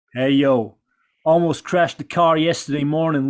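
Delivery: put-on low Razor Ramon voice with a Cuban-American accent; Razor Ramon impression. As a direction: growl it out as the wrestler. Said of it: "Get in character".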